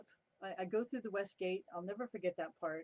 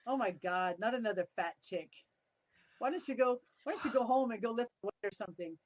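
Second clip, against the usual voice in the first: mock boss teasing; 2 semitones higher, 5 dB louder than usual. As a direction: rib her like a gruff stunt boss, half joking. Boss mocking her in the audition.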